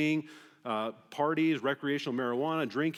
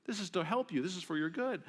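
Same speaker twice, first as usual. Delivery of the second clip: higher, pleading sincerity; earnest father; 5 semitones higher than usual. Retold or imitated. Father explaining to his sassy daughter, sincere. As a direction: reason gently with a hurt child. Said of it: "the father would say".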